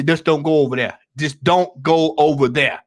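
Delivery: low, hushed fatherly warning; parent's warning. Retold or imitated. Parent warning his kid away, low and hushed. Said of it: "but they say".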